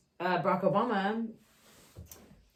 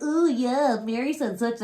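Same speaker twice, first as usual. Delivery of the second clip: mock sneer; 4 semitones higher, 3 dB louder than usual. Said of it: "sneer, like you hate it and hate her".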